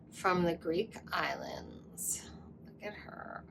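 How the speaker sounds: soft whisper, half-voiced; hushed whisper. Real, not acted. Showing the viewers her goddess stone in a hushed whisper. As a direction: hush as if showing something precious.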